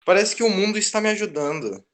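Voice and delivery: gleeful villain. Acted. Gloating over rival's trouble.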